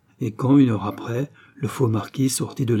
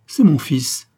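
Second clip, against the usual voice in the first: raised, higher cry of recognition; hoarse old woman exclaiming; 5 semitones higher, 6 dB louder, slower than usual. A narrator's reading. Old ragpicker recognises her son, hoarse exclamation. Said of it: "s'écria la vieille femme d'une voix enrouée".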